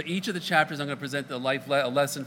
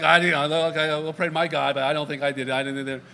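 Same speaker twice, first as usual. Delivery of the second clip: louder, quick "I didn't" denial; defensive protest; 5 dB louder than usual. Acted. Frightened sailor denying blame to the crew, loud and defensive. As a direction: insist loudly it wasn't you.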